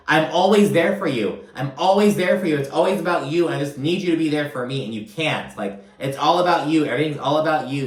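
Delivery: mildly heated retold outburst; popping off. Whitney pops off at Lisa about support, retold heated outburst. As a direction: imitate an exasperated, quickening rant. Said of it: "And Whitney pops off".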